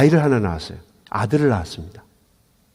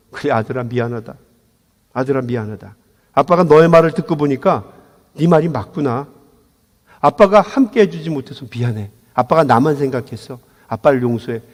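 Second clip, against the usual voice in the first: drained apology; 4 semitones lower than usual. Retold or imitated. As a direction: apologize with all strength gone. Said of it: "힘이 쏙 빠져서".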